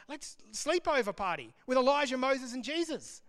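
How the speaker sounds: high, gleeful suggestion; eager as a kid planning a party; excited Peter. Acted. Peter invites Elijah, Moses and Jesus to stay over, excited. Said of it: "He's excited".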